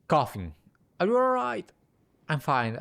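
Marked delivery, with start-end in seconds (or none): 1.0-1.7 high, anxious voice; worried. Acted. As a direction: ask with real worry, pitched up. Worried check on friend.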